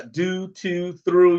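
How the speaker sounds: Baltimore vowels on do, to, through; Baltimore accent. Shown as a demonstration. Amused at how Baltimore people talk, imitated Baltimore accent. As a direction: draw attention to each Baltimore-accented vowel. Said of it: "the way they say do".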